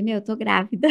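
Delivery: telling it with a laugh; laughing confession. Retold or imitated. Confessing the pregnancy to her sister-in-law in the car, laughing. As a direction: laugh through the news.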